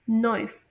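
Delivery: नॉइस with one oy glide; correct pronunciation. Shown as a demonstration. Teacher models the corrected word, correct pronunciation. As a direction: say नॉइस as a single syllable, as taught. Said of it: "एस को जी की तरह pronounce".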